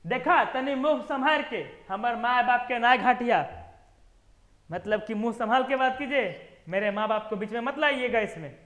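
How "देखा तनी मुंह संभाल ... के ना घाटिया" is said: angry wife. Acted. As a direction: warn him to mind his mouth. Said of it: "गुस्सा के जोर से बोलेगी".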